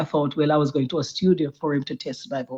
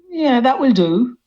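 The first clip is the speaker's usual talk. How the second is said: imitating producer; 8 semitones higher, 6 dB louder than usual. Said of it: "and he said".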